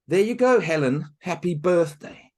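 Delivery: put-on proud girl. Marushka giving Helen the strawberries, loud and proud. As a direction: present them proudly.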